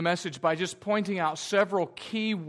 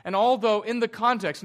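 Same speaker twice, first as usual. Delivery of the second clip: rising passion; 3 semitones higher, 5 dB louder than usual. Real, not acted. Preacher builds urgency on earnestness.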